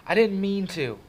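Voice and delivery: high, loud protest falling away; pleading. A narrator's reading. Kid excusing himself to angry brother, pleading. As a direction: beg him to believe you. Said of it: "I pleaded with Derry".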